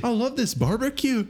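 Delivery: very high, hammed-up Irish accent; exaggerated Irish lilt. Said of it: "I can do an Irish accent".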